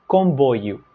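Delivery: "Comboio" said slowly and clearly; Portugal word. Shown as a demonstration. Teacher to students, modelling the Portuguese word. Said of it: "em Portugal é comboio".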